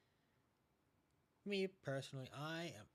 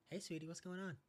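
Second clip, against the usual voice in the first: high, sweet mom greeting voice; imitating mom; 8 semitones higher, 4 dB louder than usual. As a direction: chirp it like a cheerful mom picking up the phone. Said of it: "She's like".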